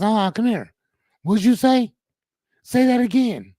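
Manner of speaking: hammed-up coworker daring her to say it again; mock menacing challenge. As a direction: bait her into repeating it, rising up. Coworkers confront her in parking lot.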